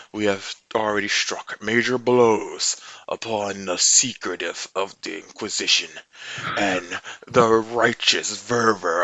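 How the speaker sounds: a lightly voiced rebel leader rallying a city over the comms; rebel broadcast speech.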